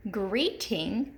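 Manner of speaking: "greeting" in two parts, long E first; stressed first syllable. Shown as a demonstration. Teacher repeating an example, "greeting" stressed on the first syllable. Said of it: "That long E is accent".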